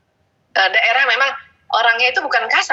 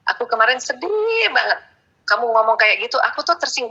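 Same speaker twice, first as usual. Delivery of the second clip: calm sincere message. Shown as a demonstration. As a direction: tell him calmly how you were hurt. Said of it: "sampaikan pesan saya".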